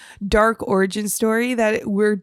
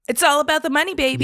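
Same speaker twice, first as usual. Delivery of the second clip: hammed-up catchphrase; 5 semitones higher, 3 dB louder, much faster than usual. Repeats the money catchphrase on request.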